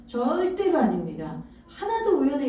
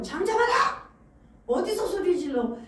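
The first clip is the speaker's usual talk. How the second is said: crowd hushing him; 4 semitones higher than usual. Acted. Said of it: "이렇게 무리들처럼".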